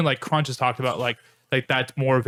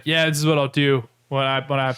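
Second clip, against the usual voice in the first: imitated Southern accent, drawn out at the end; Mango's Southern accent; slower than usual. Podcaster imitating Mango's commentary, light Southern accent. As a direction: put on a playful Southern twang. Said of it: "he talks in a Southern accent too".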